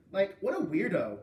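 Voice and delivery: put-on loud sneering mean girl; mean mocking. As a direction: sneer at him cruelly.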